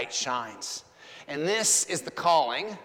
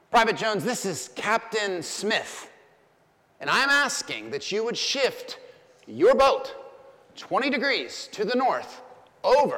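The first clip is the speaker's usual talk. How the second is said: captain repeating his order more sternly; 4 semitones higher than usual. Retold or imitated. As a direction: lean on it like a captain losing patience. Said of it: "with a little bit more sternness".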